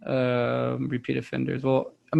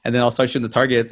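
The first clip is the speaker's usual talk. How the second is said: normal talking voice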